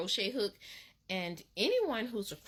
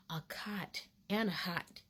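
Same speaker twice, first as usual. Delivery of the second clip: whispered aside; 3 semitones lower, 4 dB quieter than usual. Retold or imitated. Taunting the thief.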